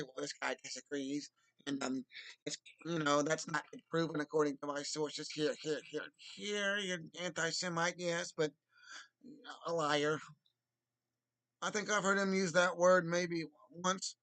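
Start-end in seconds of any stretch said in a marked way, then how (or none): 0.0-10.2 a hint of a debater's brisk rebuttal; Ben Shapiro impression. Streamer imagining Ben Shapiro rebutting the guest, light impression. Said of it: "At least Ben Shapiro would say".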